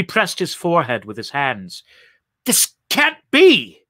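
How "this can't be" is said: high, loud, drawn-out protest; disbelieving cry. A narrator's reading. Saul clutching his forehead at the vision, anguished cry. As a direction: cry out slowly in sheer disbelief.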